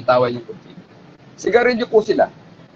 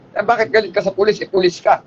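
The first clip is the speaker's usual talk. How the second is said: mildly startled, higher-pitched question; retold surprise; 4 semitones higher than usual. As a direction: imitate a puzzled hostage taker, lightly. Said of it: "Nagulat daw po yung hostage taker". (medyo nagulat na pagtatanong)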